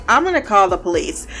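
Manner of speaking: mock-casual threat, quick and light; ever so casually. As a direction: toss it off like it's nothing, half-laughing. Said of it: "It's ever so casually".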